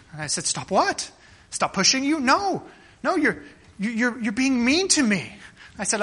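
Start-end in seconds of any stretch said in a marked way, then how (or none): 0.4-5.3 mock child voice. Father and child quoted.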